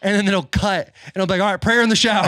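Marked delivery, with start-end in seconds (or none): 1.4-2.2 mock team call. Retold locker room call.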